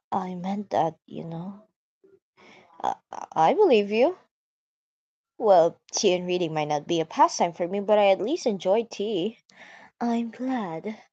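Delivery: put-on slipping into a British accent. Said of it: "I fucking turned British".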